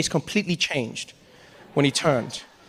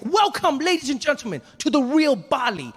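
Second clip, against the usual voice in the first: much higher, chirpy guide patter; overly happy tour guide; 6 semitones higher than usual. Retold or imitated. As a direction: sell it like an eager tour guide. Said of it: "he's like".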